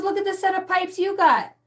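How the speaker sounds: mock amazed teacher. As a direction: gush over her singing. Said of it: "He goes".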